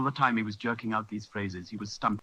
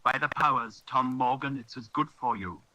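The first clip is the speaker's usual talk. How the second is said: exclaiming; 4 semitones higher than usual. Acted. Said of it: "exclaimed the landlord".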